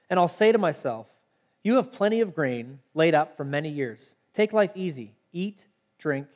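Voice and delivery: measured, deliberately phrased Bible reading; scripture reading. Acted. Preacher reading the parable to listeners, measured scripture reading.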